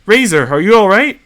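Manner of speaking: high, startled and confused; alarmed, worried concern. Acted. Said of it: "clearly confused by Razor's behavior".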